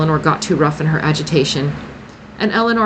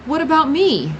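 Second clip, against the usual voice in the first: hint of trepidation; 11 semitones higher than usual. A narrator's reading. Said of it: "a hint of trepidation".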